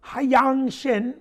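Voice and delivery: Hyang Shin said with a light Korean accent, haɪjɑŋ for Hyang; Korean-style name. Shown as a demonstration. Host showing how the name should be said, light Korean accent. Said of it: "I did say that with a little accent".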